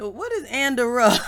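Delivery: laughing. Retold or imitated. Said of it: "And he said".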